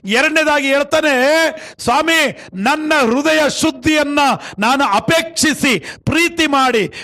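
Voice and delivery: preaching. Acted. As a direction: preach it out to the congregation. Preaches to congregation. (ಜೋರಾದ ಪ್ರವಚನ ಶೈಲಿ)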